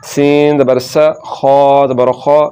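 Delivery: slow spelling, rounded खौ; full-mouthed "kho" in खौ; heavy KH. Shown as a demonstration. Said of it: "मोटा करके पढ़ेंगे".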